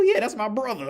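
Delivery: high, loud, put-on woman's voice; hammed-up high voice for her; mock Asian woman.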